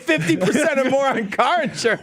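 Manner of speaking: a touch of a cheesy insurance ad announcer; mock ad voice.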